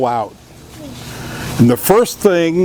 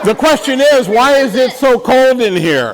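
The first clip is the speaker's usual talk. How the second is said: playful quiz host; 10 semitones higher than usual. Real, not acted. Quizzing kids playfully.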